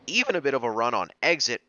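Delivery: quick race call with a cracking voice. Real, not acted. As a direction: voice cracks as the commentary hurries on. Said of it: "Apologies for the voice crack".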